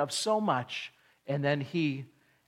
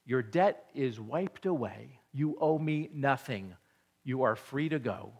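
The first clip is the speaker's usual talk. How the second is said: merciful master. Retold or imitated. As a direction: release him gently. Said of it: "And the man says".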